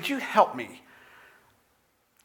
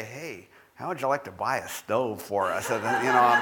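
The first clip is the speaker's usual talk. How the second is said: sheepish pitch; 5 semitones lower than usual. Pretend. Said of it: "So if I ever sidle up to you".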